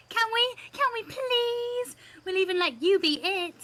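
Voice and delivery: put-on kid character voice. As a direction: call out eagerly like a little kid. Reads a kid character's lines.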